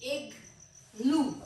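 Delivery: इग्लू said very slowly, each sound stretched; slow drawn-out word. Shown as a demonstration. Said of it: "इसके दो syllables हैं".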